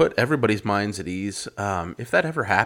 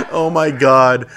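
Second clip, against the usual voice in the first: creepy voice; 2 semitones higher, 9 dB louder, slower than usual. Pretend. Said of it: "I need to work on my creepy voice".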